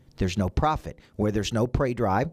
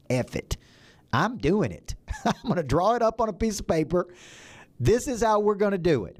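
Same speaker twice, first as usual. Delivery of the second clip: excited resolve; 7 semitones higher than usual. Retold or imitated. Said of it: "And one day I just said".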